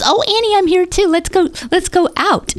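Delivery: put-on high, bright voice of an old friend on the phone; imitating the excited friend. Old school friend on the phone, high excited mock voice. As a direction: gush like a friend thrilled to reconnect.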